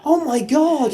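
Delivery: high, loud laughing exclamation; giddy laughing "oh my God". Real, not acted. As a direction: laugh through it, still giddy. Still laughing after the fan moment.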